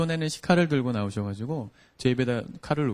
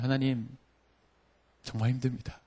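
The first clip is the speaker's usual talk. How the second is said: honest prayer; 6 dB quieter than usual. Retold or imitated. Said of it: "그날 밤에 기도를 하기 시작했습니다".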